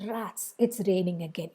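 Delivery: not very intense disappointment; mild disappointment. Shown as a demonstration. Teacher repeating the rain example, mildly disappointed. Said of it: "not very intense".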